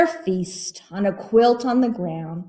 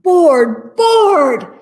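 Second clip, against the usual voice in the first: each bored louder and higher; rising bored groan; building bored; 9 semitones higher, 8 dB louder than usual. Acted. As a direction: let the boredom swell into a wail. Repeated word building up.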